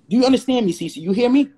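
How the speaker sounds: insistent demand. Real, not acted. Pressing his friend to agree.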